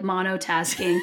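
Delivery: flat quiet deadpan mock; deadpan mumble. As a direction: drop it low and dull, like a letdown. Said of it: "And then I'm like".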